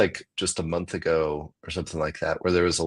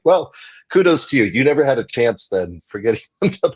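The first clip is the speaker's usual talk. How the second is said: high, louder mock congratulation; sarcastic kudos; 5 semitones higher, 6 dB louder than usual. Comic mock-praising the bouncer, loud and high. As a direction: cheer him on with heavy sarcasm. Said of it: "And I was like".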